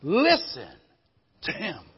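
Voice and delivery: slow, loud, solemn voice from the cloud; voice of God. Acted. God speaking from the cloud, slow and solemn. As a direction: give God's words slowly, with weight. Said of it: "A voice came from the cloud saying".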